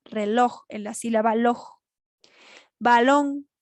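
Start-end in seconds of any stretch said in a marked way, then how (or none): 0.0-0.6 reloj with the final "loj" stressed. Shown as a demonstration. Teacher showing where the voice hits hardest, stress on "loj" in reloj. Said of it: "el mayor golpe de voz". 2.8-3.5 Balón, louder, final "lón" held; stress on last syllable. Shown as a demonstration. Teacher giving an example of an aguda, stressed "lón" in Balón. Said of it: "va en la última sílaba".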